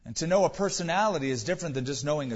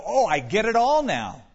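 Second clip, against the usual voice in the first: louder, higher sudden "I get it" burst; mock eureka; 6 semitones higher, 6 dB louder than usual. Preacher mocking the one who thinks he has God figured out, louder and higher. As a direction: play the smug believer who thinks he's done. Mock know-it-all quote.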